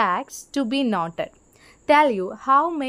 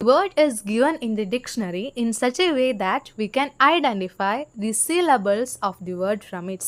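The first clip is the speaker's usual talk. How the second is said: slow, deliberate reading aloud to students; slow textbook reading; much slower than usual. Shown as a demonstration. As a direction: read each word out slowly for the class. Reads English textbook line slowly. (പതുക്കെ പാഠപുസ്തകം വായിക്കുന്നു)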